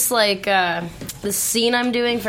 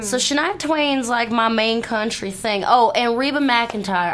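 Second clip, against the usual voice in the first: slow Southern drawl; country accent. Shown as a demonstration. Actress naming her country music idols, slow country accent. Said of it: "I got the country accent".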